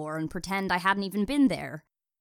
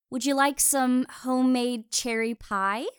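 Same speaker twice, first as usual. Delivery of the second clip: higher, louder offer; raised, high-pitched voice lifting into a question; calling out; 8 semitones higher, 5 dB louder than usual. Acted. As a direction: call the invitation across the lawn. Calling an offer across the lawn.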